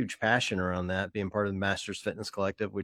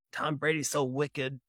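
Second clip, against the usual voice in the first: higher, slow mock Boston accent, hammed up; 5 semitones higher, slower than usual. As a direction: drawl it like a stereotypical Boston fan. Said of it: "in that horrible Boston accent".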